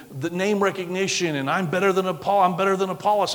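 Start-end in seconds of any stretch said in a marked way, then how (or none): 1.5-3.3 lightly mocking, higher one-upmanship; slightly raised boastful voice; mock bragging. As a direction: imitate rivals competing to be best. Mimics rivals bragging.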